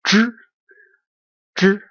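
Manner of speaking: "zh" close to the dr in drink; isolated, retroflex "zh"; curled tongue. Shown as a demonstration. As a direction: curl the tongue back for zh. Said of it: "as curl tongue".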